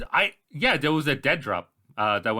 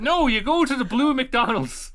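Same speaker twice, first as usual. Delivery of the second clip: high, loud, slow, laughing through it; laughing retort; 11 semitones higher, 5 dB louder than usual. Real, not acted. Friend mocks getting lost in the countryside, laughing. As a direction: joke while cracking up.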